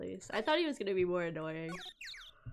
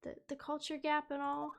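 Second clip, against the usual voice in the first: higher, meek apologetic voice; a bashful young girl, lightly voiced; timid girl; 6 semitones higher than usual. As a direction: shrink back apologetically. Voices shy Maya.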